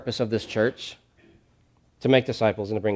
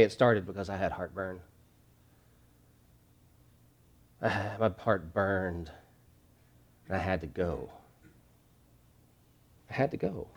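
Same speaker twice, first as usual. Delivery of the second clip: imagined testimony; 5 semitones lower, 12 dB quieter than usual. Retold or imitated. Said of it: "they will say".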